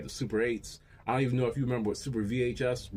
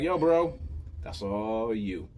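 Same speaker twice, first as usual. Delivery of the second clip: pony voice; 3 semitones lower, slower than usual. Retold or imitated. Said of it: "pony was like".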